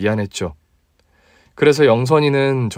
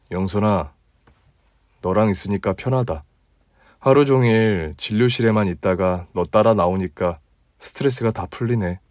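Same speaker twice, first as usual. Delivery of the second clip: a touch lower, relaxed guy talking to a friend; easygoing male colleague, slightly deeper; 4 semitones lower than usual. Acted. Narrator voices himself in dialogue. (조금 낮고 편안한 남자 목소리)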